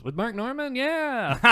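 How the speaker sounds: rising high in mock excitement; eager, high-pitched retold reply; thrilled fan. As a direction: imitate a delighted podcast fan. Acting out the thrilled fan doctor.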